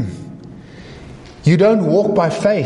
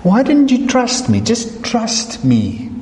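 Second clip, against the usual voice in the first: gentle rebuke; 4 semitones higher, slower than usual. Acted. Jesus gently rebukes Peter.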